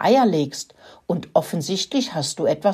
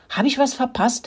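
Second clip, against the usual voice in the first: high, squeaky little mouse question; Rudi squeaking; 6 semitones higher than usual. A narrator's reading. Latecomer mouse asks the others, squeaky and high. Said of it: "fiebte Rudi".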